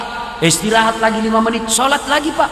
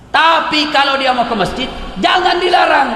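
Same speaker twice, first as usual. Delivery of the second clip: raised-pitch emphatic pronouncement; firm, emphatic; 5 semitones higher than usual. Retold or imitated. Preacher relaying the Prophet's ruling on women, firmly emphatic. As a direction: lay it down as a clear rule, pitched high. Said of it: "Itu Nabi tegaskan begitu".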